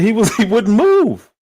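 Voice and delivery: high, slow, laughing through a retold excuse; laughing protest. Telling his cousin the man wouldn't move, high and laughing. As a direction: giggle out the excuse. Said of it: "I was like".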